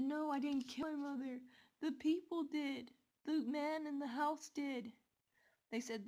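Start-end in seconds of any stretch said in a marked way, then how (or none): 0.0-4.9 higher, louder insistent protest; desperate denial. Retold or imitated. Girl insists to disbelieving police that the man did it. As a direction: plead your innocence hard.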